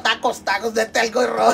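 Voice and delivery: mock vendor call. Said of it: "a ver, grita".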